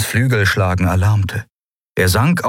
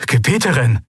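Gebieterin cried out higher with a firm fall; an urgent, exclaimed Gebieterin; urgent protest; 5 semitones higher than usual. A narrator's reading. Aide protesting as she turns away, urgent exclamation.

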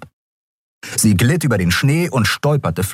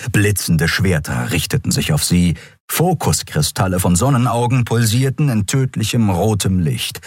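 ordinary delivery, nothing marked

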